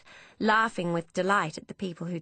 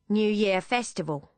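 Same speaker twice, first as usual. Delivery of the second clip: lightly voiced Cockney cabbie; a hint of a London cabbie's Cockney; light Cockney taxi driver voice; heavy Cockney accent; 2 semitones higher than usual. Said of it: "in a heavy Cockney accent".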